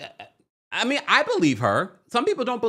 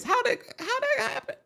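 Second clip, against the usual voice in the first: laughing; faster than usual. Real, not acted. Laughing at Simon's voice.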